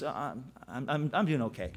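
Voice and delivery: soft, halting and tired; lightly voiced worn-out friend; stumbling a little, low energy; hesitant, flat.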